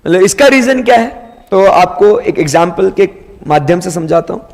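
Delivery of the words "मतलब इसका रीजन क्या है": puzzled student. Pretend. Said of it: "अब आप ये पूछेंगे कि सर".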